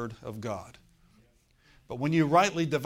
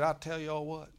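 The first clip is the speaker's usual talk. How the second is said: a hint of Southern accent, folksy; imitating a southern preacher; 2 semitones higher than usual. Pastor quoting John Osteen in a light Southern accent. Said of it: "in his southern voice".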